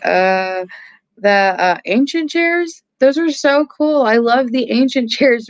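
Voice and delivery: lightly mocked thirteen-year-old. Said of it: "our thirteen-year-old was like".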